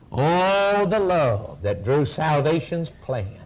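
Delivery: long held "Oh" opening each line; declaimed hymn, slow and swelling; hymn recitation. Real, not acted. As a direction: intone the hymn verse slowly, stretching each "Oh". Recites hymn verse with drawn-out Ohs.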